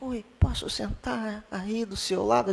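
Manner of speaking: soft, polite, softly spoken little voice. Describing public transport, acting out a polite person asking to sit beside someone: mimicking a soft-spoken person. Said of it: "falando baixinho".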